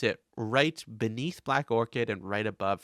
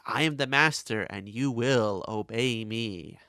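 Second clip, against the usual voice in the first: Master voice; 4 dB louder than usual. Retold or imitated. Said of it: "and he says".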